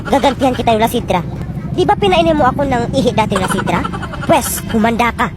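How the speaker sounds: low vengeful warning; menacing villain. Acted. Revenge threat in a villain voice.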